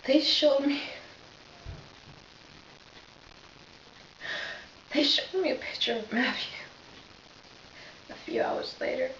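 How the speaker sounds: lightly voiced police officer, understated grief; a hint of a shaken officer reliving the scene; Reggie Flutie monologue. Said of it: "I will be playing Reggie Flutie".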